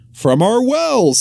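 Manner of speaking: slow, high slip of the tongue; butcher's wife blurting. Acted. Butcher's wife blurting out the secret, slow and high. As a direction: let it slip without thinking. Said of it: "without thinking".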